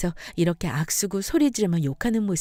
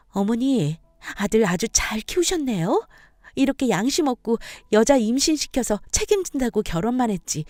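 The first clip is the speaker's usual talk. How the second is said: acted wife, bitterly sarcastic; mock-praise your mother-in-law's parenting; indignant, lightly acted sarcasm; 4 semitones higher, 3 dB louder than usual.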